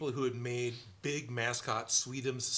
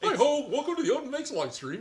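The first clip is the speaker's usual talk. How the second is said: very high, loud, swooping, bouncy puppet voice; 13 semitones higher, 7 dB louder than usual. Working the frog puppet and welcoming the live stream: Kermit the Frog voice. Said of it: "So the hands are down here somewhere".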